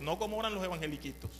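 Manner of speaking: quick, belittling aside on evangeliquitos; dismissive. Acted. Preacher contrasting true believers with little ones, quick and dismissive. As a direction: toss off evangeliquitos with scorn. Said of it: "Oración de verdad".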